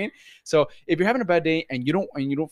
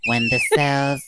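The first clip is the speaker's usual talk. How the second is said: monotone professor. Retold or imitated. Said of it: "could have been a good professor".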